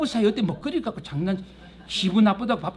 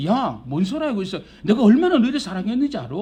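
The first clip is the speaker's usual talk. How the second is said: God's retort; 2 semitones higher, 4 dB louder than usual. Acted. God answers Israel's complaint.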